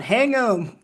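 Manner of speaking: half-yell it as a quoted movie line; imitated yell. Guest retelling Bob's cameo to the host, mildly mock-yelling. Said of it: "Bob literally is yelling out".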